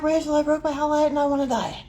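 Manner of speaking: high-pitched, hammed-up lament; mock distress. Telling friend about the broken howlite, mock-distraught. Retells distraught news to Rachel.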